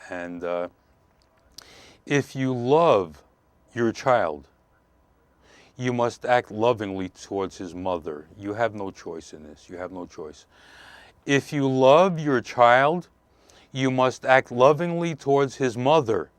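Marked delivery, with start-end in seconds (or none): 2.0-10.5 measured advice. Real, not acted. First, measured statement of key advice. 11.3-16.3 slow, loud stress on "love" and "lovingly"; emphatic repeat. Real, not acted. Emphatic repeat of key advice.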